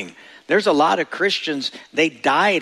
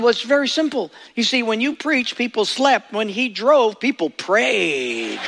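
joke punchline; 6 semitones higher than usual. Retold or imitated. Punchline voiced as the friend.

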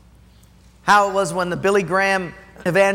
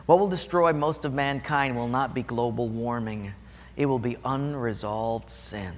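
softer, lower, gentle and grave; quiet voice of the Lord; 5 semitones lower, 5 dB quieter than usual. Retold or imitated. The Lord answering Wayne's anger, quiet and grave. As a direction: speak it quietly into his heart. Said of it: "the Lord just spoke quietly to my heart".

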